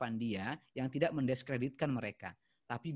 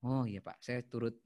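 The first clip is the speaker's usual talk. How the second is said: empathetic reply; 5 semitones lower than usual. Shown as a demonstration. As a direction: console an upset caller gently.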